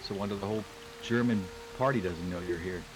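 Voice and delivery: put-on American accent. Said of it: "in a very American voice saying".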